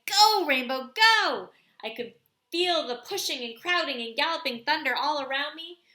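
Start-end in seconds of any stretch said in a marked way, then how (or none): 0.1-1.5 loud, high cry to the horse; urging shout. Retold or imitated. Boy shouting to his horse mid-race, loud. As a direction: spur the horse on with your voice. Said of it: "and I said".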